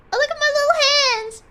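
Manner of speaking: high, delighted squeal; loud, high delight; excited. Real, not acted. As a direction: gush over the tiny hands. Delighted at game character.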